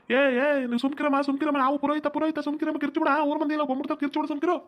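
high, urgent hush to stop her screaming; calm her down fast before the village wakes. Acted. Priest urgently hushing the screaming woman, high and hurried.

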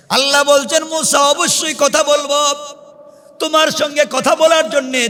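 high, ringing sermon delivery; preacher in a high, urgent pitch; impassioned preaching. Acted. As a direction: raise the voice and preach each phrase out. Preaches at full force.

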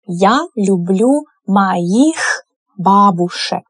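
slow, careful model sentence. Shown as a demonstration. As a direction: say it slowly for learners to copy. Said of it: "teacher models sentence".

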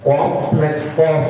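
কফ শব্দের শেষে ফ টেনে বাতাস ছেড়ে, ধীরে; শেষের ফ-তে বাতাস চালু রেখে ধীরে বলা; ধীরে ফায়ের বাতাস দেখানো. Shown as a demonstration. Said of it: "শেষে হলো বাতাস, ফা দিয়ে". (ধীরে বাতাসসহ ফ উচ্চারণ)

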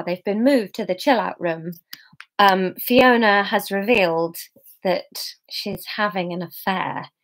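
hushed, breathy whisper, unvoiced; whispered recap. Real, not acted. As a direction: whisper the gossip so only listeners hear. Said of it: "recap whispered before reading".

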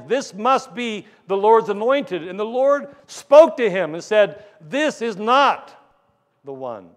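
forceful, drawn-out pulpit retelling; dramatic sermon build; emphatic preaching. Acted. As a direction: punch out the verdict to the congregation. Preacher acts out the Lord's answer.

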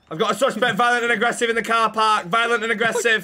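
loud, laughing police radio report; mock radio call. Officer calling in a suspect over the radio, laughing and loud. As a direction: call it in like a cop barely holding it together.

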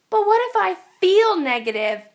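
a hint of a worried kid asking; worried boy. A narrator's reading. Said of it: "asked George".

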